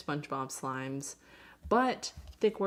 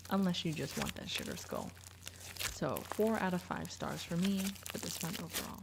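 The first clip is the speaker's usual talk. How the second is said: talking through the hiccups; 4 dB quieter than usual. Real, not acted. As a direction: speak while hiccuping. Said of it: "I'm sorry, I have the hiccups".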